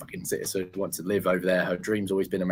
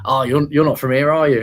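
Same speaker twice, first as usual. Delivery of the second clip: barman's surprised question; 5 semitones higher, 9 dB louder than usual. Retold or imitated. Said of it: "this bloke on the bar immediately goes".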